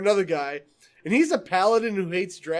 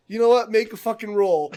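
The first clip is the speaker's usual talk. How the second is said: louder, raised-pitch mock exasperation; annoyed game master; 4 semitones higher, 6 dB louder than usual. Player imitating the DM demanding a roll, mock exasperation. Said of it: "gets so fucking annoyed".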